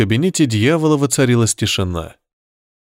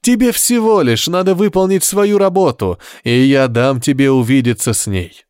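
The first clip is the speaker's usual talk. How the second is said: loud coaxing devil; 3 semitones higher than usual. Acted. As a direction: call it out grandly. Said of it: "воскликнул дьявол". (громкий соблазняющий голос)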